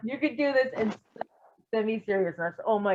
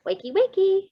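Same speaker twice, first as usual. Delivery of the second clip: teasing wake-up call; 9 semitones higher than usual. A narrator's reading. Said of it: "he said".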